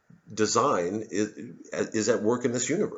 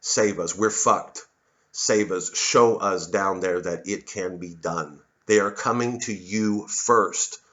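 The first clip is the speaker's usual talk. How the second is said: mock plea; 3 semitones lower, slower than usual. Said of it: "I'm crying out to the Africans".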